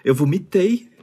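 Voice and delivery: hungover and worn out. Real, not acted. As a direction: speak through a rough hangover. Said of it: "Eu tô com uma ressaca".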